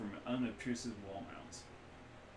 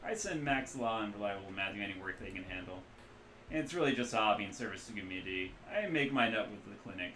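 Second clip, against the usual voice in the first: put-on Midwestern accent. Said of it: "loose Midwestern accent".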